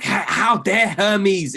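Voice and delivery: slow, drawn-out mock outrage. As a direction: stretch each word in put-on indignation. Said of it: "And we're like".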